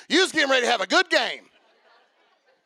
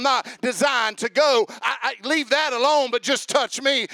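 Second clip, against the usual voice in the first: rising preacher cadence, getting louder; preaching; 4 dB louder than usual. Shown as a demonstration. Preacher giving an example sermon to the congregation, building fervor. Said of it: "I can preach that on you".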